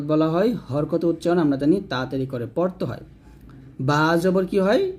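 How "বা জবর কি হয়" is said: slow teaching question. Shown as a demonstration. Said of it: "প্রথমে বানান করে".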